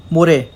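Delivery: मोरे as मो-रे, short and falling; Korean word. Shown as a demonstration. Teacher demonstrating Korean for day after tomorrow, clear model. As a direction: say मोरे crisply once it is built. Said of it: "र में ए की मात्रा".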